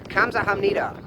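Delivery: 감사합니다 with a breathy K start; Korean thank you. Shown as a demonstration. Vlogger teaching thank you, 감사합니다 with a K sound. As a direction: say 감사합니다 as kam-sa-ham-ni-da. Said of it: "phrase number two".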